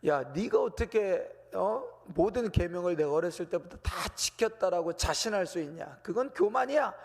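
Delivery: 꾸짖는 듯한 과장된 말투, 끝에서 높고 크게; mock rebuke. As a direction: play a stern preacher catching someone in pride. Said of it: "이렇게 말씀하시는 게 아니라".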